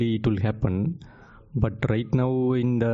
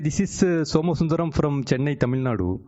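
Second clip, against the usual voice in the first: louder and higher for a bad line; to someone hard of hearing; 4 semitones higher than usual. Real, not acted. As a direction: raise the voice so the listener hears. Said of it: "you have to speak louder, please".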